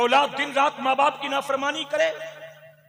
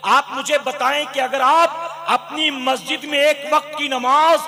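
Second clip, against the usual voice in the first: fiery sermon. Acted. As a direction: preach it hard, building the fire. Preacher builds to full force.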